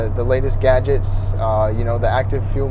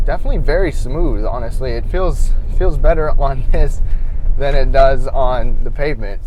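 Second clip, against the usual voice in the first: on a bumpy road; 4 dB louder than usual. Real, not acted. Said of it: "Now we're on some gravel".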